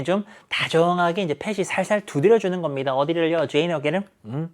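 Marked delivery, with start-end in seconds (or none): 4.2-4.5 gentle, softer "괜찮아"; a touch of tender reassurance; warm reassurance. Acted. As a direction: comfort her kindly. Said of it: "요런 느낌으로 훈훈하게".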